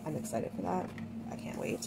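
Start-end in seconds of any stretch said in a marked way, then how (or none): 1.3-1.9 whispered. Real, not acted. Excited aside while cooking.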